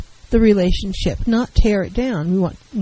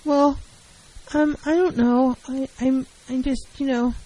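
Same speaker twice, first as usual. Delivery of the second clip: passive hedging; 4 semitones higher than usual. Shown as a demonstration. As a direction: mumble the hint, afraid to ask. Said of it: "the failure to get to the point is passive".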